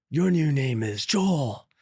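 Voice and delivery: slow, drawn-out pronouncement; mock proclamation. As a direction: retell it as a stretched-out decree. Bully repeats his proclamation.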